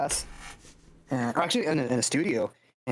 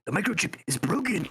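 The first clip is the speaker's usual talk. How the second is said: Doc Ock; 8 semitones higher than usual. Acted. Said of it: "fucking Doc Ock, like, he's like".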